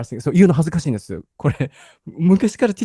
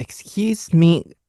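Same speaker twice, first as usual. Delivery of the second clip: cute tone; 4 semitones higher, much slower than usual. Shown as a demonstration. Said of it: "そっち".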